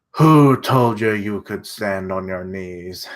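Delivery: slow, menacing bad German accent; a mock German villain, slow; shitty German accent. German villain taunting the hostage, in a bad German accent. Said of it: "give him a shitty German accent".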